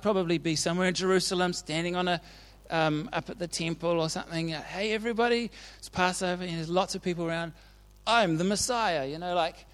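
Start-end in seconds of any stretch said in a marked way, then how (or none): 4.5-9.1 half-hearted proclaiming to everybody; mock public announcement. Preacher imagining himself at the temple, mock proclaiming. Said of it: "announce it somehow".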